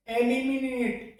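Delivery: एलिमिनेट with an "e" at the start; एलिमिनेट said "e-li-mi-net"; wrong pronunciation. Shown as a demonstration. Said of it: "ए करके प्रोनाउंसिए- इसका किया जाता है". (गलत उच्चारण: एलिमिनेट)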